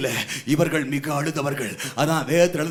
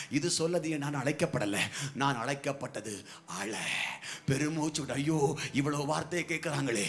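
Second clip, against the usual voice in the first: much softer, lower intimate sermon; hushed preaching; 4 semitones lower, 8 dB quieter than usual. Acted. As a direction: drop to a soft, close voice. (மென்மையான தாழ்ந்த குரல் பிரசங்கம்)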